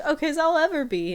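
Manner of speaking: put-on high, loud laughing old-man voice. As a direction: squeak it out like a frail old man. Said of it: "McGucket's like".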